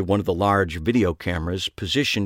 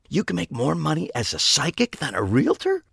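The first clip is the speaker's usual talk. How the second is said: cracking whisper; 7 semitones higher than usual. Acted. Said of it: "his voice cracking as he attempted to whisper".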